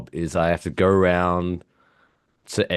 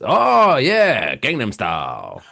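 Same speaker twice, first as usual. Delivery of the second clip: deadpan non sequitur; 4 semitones higher, 3 dB louder, much slower than usual. Pretend. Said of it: "Just to say it".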